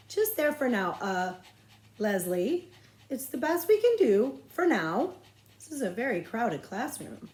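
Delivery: a teacher making awkward room; flustered teacher. Acted.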